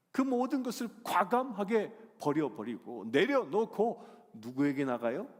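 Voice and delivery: ordinary delivery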